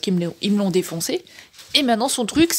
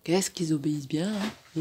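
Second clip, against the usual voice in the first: whispered ironic aside; 5 semitones lower, 5 dB quieter than usual. Real, not acted. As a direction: breathe it out with no voice, teasing. Ironic aside about the cats. (chuchoté, ironique)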